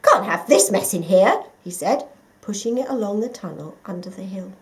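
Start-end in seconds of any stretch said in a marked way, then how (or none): 0.0-1.5 fussy. A narrator's reading. Mole dismissive.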